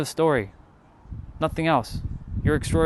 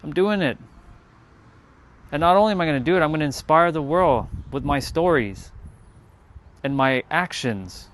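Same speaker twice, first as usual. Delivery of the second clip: determined vow. Retold or imitated. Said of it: "but I was like".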